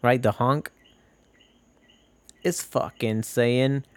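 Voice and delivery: ordinary talk, nothing marked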